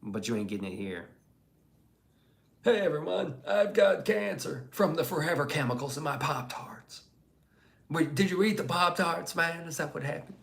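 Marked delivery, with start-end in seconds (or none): 2.6-10.4 mock announcement. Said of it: "mocking chatter announcing cancer".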